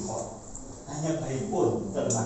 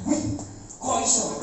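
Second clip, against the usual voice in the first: lightly voiced Javanese wow, drawn out slowly; a slow amazed Javanese gasp; Javanese exclamation; 4 semitones higher, slower than usual. Workers marvelling at their earnings, slow amazed Javanese wow.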